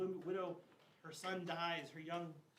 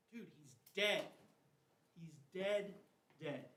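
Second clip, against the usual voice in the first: exasperated disbelief; 4 dB louder, slower than usual. Acted. Skeptical onlookers refuse Jesus' request.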